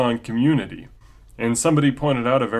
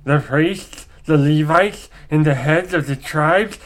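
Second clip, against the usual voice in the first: ancient rasping undead king; dark lich voice. Acted. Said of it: "kind of a dark lich voice".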